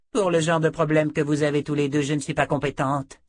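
lightly voiced gruff refusal; dismissive sorceress. A narrator's reading. Sorceress to two strangers at her door, dismissive. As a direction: turn them away with mild disdain.

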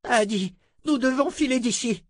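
put-on old sorcerer voice. Zed urges escape.

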